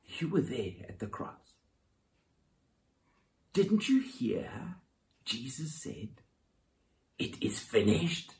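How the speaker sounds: soft, hushed taunting voice, partly whispered; mock Satan whisper. Preacher voicing Satan whispering to Mary, hushed taunt. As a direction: whisper like the tempter in her ear. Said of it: "Satan whispering in her ear".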